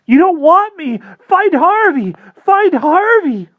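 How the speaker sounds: high loud tearful whine; whining sob. Acted. Sobbing Wendell begs vampire to find Harvey, tearful whine. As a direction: blubber and beg through tears. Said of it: "Wendell whined, all snot and tears".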